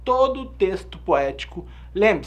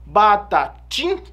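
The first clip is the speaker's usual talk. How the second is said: Batatim said slowly and louder, beat on the strong syllable; slow stressed syllables; 5 dB louder, much slower than usual. Shown as a demonstration. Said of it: "olha a sílaba forte".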